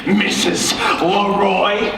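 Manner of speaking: rising, shouted exasperated tirade; angry rant. Acted. Director explodes at the demanding star, shouting. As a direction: blow up at the diva.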